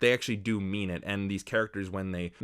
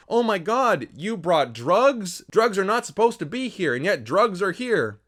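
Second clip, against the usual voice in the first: high, loud, swooping mock outrage; hammed-up shock; 8 semitones higher, 5 dB louder than usual. Reviewer acting out wacky drug hijinks, hammed-up shock. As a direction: overact a scandalized discovery.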